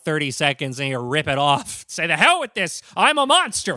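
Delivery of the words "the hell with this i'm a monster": mock monster voice. Acting a monster unmasking.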